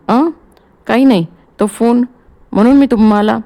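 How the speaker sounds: flustered, loud, high bluster; pulling herself together. Acted. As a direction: cover up quickly, a bit rattled. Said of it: "स्वतःला सावरीत". (स्वतःला सावरत, गोंधळून)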